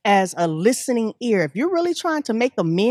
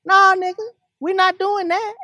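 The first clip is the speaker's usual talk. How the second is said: defiant refusal; 9 semitones higher, 3 dB louder than usual. Acted. Confronting Quad in an imagined reply.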